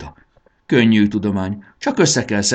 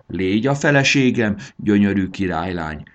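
put-on old refrain; 2 semitones higher, 3 dB louder than usual. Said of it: "gyújtott rá Samu a régi nótára".

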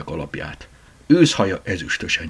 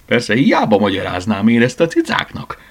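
laughing; 4 semitones higher, 5 dB louder than usual. Acted. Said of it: "kacagott fel".

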